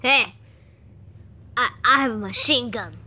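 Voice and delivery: lightly voiced gunner; a hint of a soldier voice; minigun guy voice. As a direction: introduce yourself as the toy gunner. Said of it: "Okay, do his voice".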